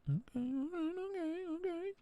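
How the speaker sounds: high breathy nervous okay; squeaky okays. Pretend. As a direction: squeak it out, alarmed.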